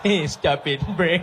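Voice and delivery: half-hearted scolding breaking into giggles; laughing through a mock reprimand; stifled amusement. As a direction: echo the telling-off while cracking up. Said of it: "And I was like".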